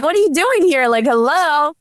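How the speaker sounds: high, peppy, playful greeting; bubbly retold hello; uppity and charismatic. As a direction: chirp it way up high at the boss. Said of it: "the very, like, uppity, like, you know, charismatic one".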